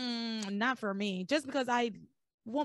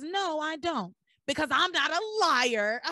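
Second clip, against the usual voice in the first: higher-pitched mock retort, breaking into a laugh; retold loud argument; 5 semitones higher than usual. Sam answering Ivy in the hospital, mock indignation. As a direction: fire back in an imitated quarrel. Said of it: "they start having it out in this hospital loudly".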